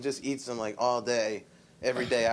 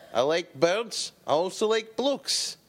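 slow Glasgow cousin; 4 semitones higher, slower than usual. Retold or imitated. Cousin impression continued.

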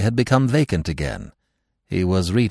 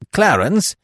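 sudden high, loud call; 12 semitones higher, 6 dB louder than usual. A narrator's reading. Husband struck by an idea calls Clarence, suddenly. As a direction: call out the name abruptly. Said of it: "said Mister Keble suddenly".

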